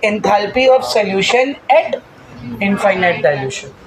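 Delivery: very slow, drawn-out answer, falling at the end; slow model answer. Shown as a demonstration. Teacher giving the answer for students to chant, slowly.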